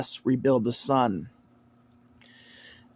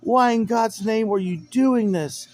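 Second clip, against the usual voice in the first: incredulous outcry; 7 semitones higher, slower than usual. Retold or imitated. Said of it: "everybody's like".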